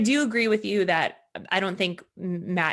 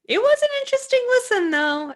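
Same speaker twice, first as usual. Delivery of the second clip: wry understatement; 9 dB louder than usual. Real, not acted. Wry understatement ending the debate.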